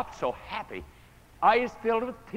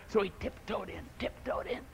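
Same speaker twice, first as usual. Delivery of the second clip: hushed; 9 dB quieter than usual. A narrator's reading. Sneaking into prayer meeting.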